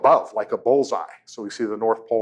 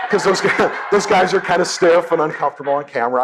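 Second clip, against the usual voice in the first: comedian's punchline voice, pitched up with a laugh; retelling Jay Leno's joke; 6 semitones higher, 4 dB louder than usual. Retold or imitated. Lecturer retelling Jay Leno's joke, mock comic voice. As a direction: deliver the joke like a talk-show host. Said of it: "So Jay Leno's joke".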